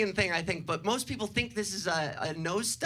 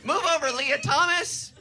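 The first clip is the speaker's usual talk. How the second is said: loud, raised-pitch mock boast; cocky trash talk; 6 semitones higher, 5 dB louder than usual. Challenging the women's swimmers, hammed-up bragging. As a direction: crow it like a champion calling out rivals.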